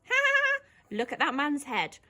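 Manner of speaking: high laugh, then giggly remark; laughing girl. Shown as a demonstration. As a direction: laugh at the man. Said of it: "let's have a look at this scene".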